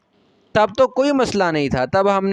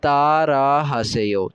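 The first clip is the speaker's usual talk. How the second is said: तारा हासेयो said slowly and evenly; slowed model phrase; 3 semitones lower, slower than usual. Shown as a demonstration. Teacher to students, saying तारा हासेयो slowly to be repeated. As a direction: repeat तारा हासेयो at a slow, steady pace. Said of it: "ऐसे मेरे पीछे दोहराइए".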